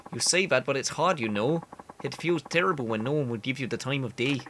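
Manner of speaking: earnest candidate in bad Canadian; awful Canadian accent. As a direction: campaign talk with a badly faked Canadian accent. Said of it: "I know the accent is awful".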